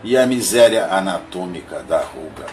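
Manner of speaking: measured, declaimed verse with pauses between lines; poem recitation. Acted. Reading Augusto dos Anjos's monologue of a shadow to listeners, poem recitation. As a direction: recite it line by line, emphatic openings falling away.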